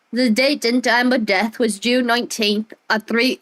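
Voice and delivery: put-on light British accent reading the date. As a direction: read it with a mild British accent. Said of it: "she turned British".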